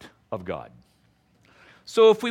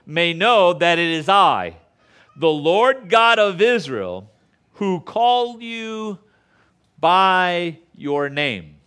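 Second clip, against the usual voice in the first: slow, louder, drawn-out divine proclamation; a hint of God's voice, slow and louder; proclaiming God's words; 5 dB louder, slower than usual. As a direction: declare each phrase slowly as the Lord speaking. Reading God's words from Isaiah.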